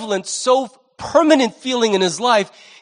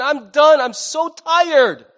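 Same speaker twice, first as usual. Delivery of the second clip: weary father; 6 semitones higher, much slower than usual. Acted. Preacher voicing exhausted father.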